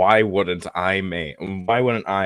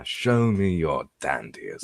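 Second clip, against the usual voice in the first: slow British character voice; second go at a British accent, drawn out; put-on British, unhurried; 3 dB quieter than usual. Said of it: "do a fucking British one".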